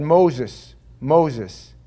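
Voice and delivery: loud, drawn-out divine call; God calling. Acted. God calling Moses from the burning bush, loud and solemn.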